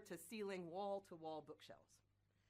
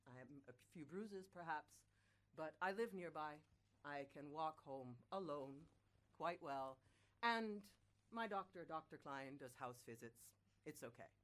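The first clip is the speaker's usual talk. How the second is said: put-on old man; 5 semitones lower than usual. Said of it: "the old man is like".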